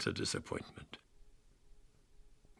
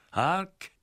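sharp command; 11 semitones higher, 4 dB louder than usual. Acted. The Count hears the wolves.

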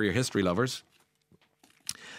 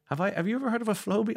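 amazed question; 12 semitones higher, faster than usual. Real, not acted. Amazed at George Clooney's haircutter.

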